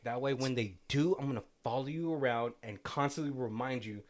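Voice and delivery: put-on lightly done stereotypical French accent; a hint of a mock French voice, teasing. Retelling the scene to her co-host, in a light mock French accent. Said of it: "my super stereotypical French voice".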